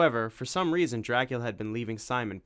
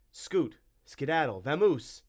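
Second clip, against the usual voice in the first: shooing away; 5 semitones higher, 3 dB louder, slower than usual. Acted. Tim shooing the creature away.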